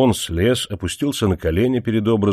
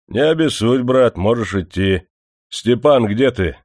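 lightly voiced smug manager; 4 semitones higher, 3 dB louder than usual. Manager paying off workers.

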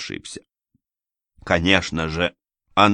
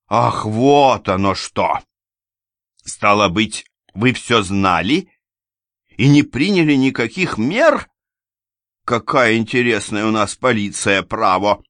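slow mocking then louder, higher scorn; sarcastic lady; 4 semitones higher, 5 dB louder than usual. A narrator's reading. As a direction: sneer at the police. Анна издевается. (саркастично, громко и высоко)

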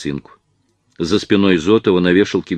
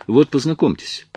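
higher, lively introduction; animated; 8 semitones higher than usual. A narrator's reading. Actress introducing two men to each other, animated. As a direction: introduce them with mild animation. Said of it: "оживлённо продолжала Лена".

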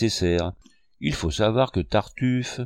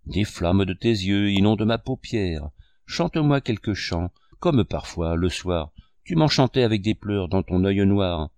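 declaiming; 2 semitones lower than usual. Acted. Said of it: "déclama la tête renversée".

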